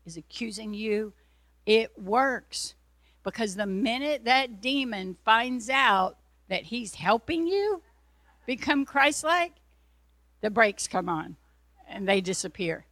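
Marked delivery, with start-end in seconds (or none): 3.2-12.9 much higher, louder preaching climax; fiery preaching. Acted. Preacher building to a loud high climax for the congregation. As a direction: rise up and proclaim it.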